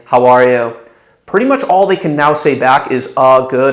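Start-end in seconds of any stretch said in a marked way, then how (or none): 0.1-0.7 downward, assumptive falling inflection on you. Demonstrating a phone call greeting, falling pitch on you. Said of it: "use a downward inflection that's assumptive".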